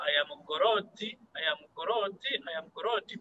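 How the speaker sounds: imitating a heavy local accent in English; lightly mimicked heavy accent on "Goroti". Teacher mimics an exam candidate's English, heavy accent. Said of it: "you need to work on the accent".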